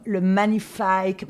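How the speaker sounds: "magnifique" ending in English-style "-ike"; catchphrase pronunciation. Retold or imitated. Interviewer quotes consultant's famous catchphrase, "magnifique" said as "manifaïke". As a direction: say "magnifique" slowly, rhyming its end with "bike".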